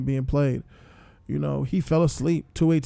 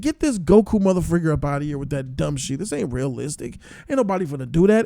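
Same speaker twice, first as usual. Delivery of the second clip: indignant rant. Retold or imitated. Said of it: "I said".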